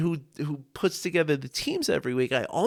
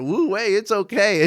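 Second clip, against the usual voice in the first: mock nonchalance; 6 semitones higher, 5 dB louder than usual. Mock calm before a bus.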